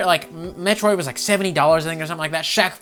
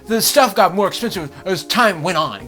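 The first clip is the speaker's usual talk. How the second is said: mock whiny gamer; 4 semitones higher, 4 dB louder than usual. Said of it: "Dreamcast guy was like".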